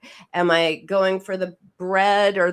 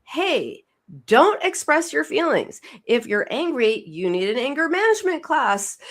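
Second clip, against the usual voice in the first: mocking voice of culture; 5 semitones higher than usual. Host mocks what culture tells us, in a higher mock-scolding voice. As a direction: parrot society's dismissive advice with mild mockery. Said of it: "which our culture says".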